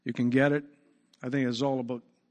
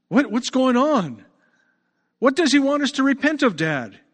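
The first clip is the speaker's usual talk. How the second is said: higher, louder questioning of a father; lightly acted puzzled boy; 9 semitones higher, 6 dB louder than usual. Little boy asks his father about the shouting, puzzled. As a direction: lightly play a boy pressing Dad for answers.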